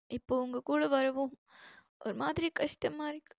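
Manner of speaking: soft, subdued confession; tearful. Acted. New bride confiding homesickness to her husband, quietly tearful. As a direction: hold back tears while explaining, softly. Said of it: "அழுகாத".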